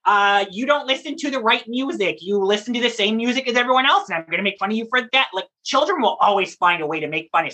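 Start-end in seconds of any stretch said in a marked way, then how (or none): 0.0-5.3 lightly voiced playground taunts; mild mock schoolyard teasing; teasing child. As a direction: imitate a kid picking on someone. Voicing children making fun of others.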